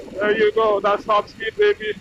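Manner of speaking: loud, thrilled, high whoop; excited shout. Real, not acted. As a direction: yell it out with a rush of joy. Hitting top speed on highway.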